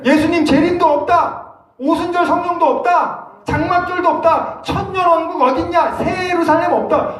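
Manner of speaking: high, sarcastic listing of denials; mocking false teachers. Preacher mocks prosperity preachers' claims, high sarcastic tone. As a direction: parody the doctrine with scorn.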